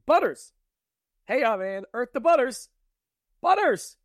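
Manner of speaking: loud, high urgent calling; calling out loudly. Retold or imitated. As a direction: shout his name to rouse him. Harry calling the silent Butters.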